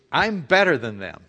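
a touch of smug superiority; mildly self-satisfied, looking down; proud inner voice. Retold or imitated. Preacher voicing a proud thought to the congregation, lightly smug. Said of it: "what that's saying is".

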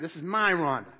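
"my" punched to claim her; stress on MY. Shown as a demonstration. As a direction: hit the word "my" firmly. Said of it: "whenever you use the word my".

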